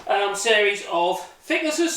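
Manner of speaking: breathless after heavy lifting; talking out of breath, panting lightly. Real, not acted. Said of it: "so I'm out of breath".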